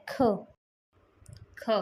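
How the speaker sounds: ख as an aspirated "kh" with a short vowel; beginning sound. Shown as a demonstration. Teacher giving the beginning sound to learners, sound demonstration. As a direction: say ख as an airy "kh-uh". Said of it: "beginning sound होता है".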